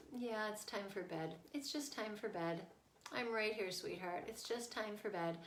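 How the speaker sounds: soft, steady reassurance; gentle limit. Retold or imitated. Mom holds bedtime limit with crying daughter, gentle. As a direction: calmly soothe while holding firm. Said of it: "bringing that gentle limit over and over".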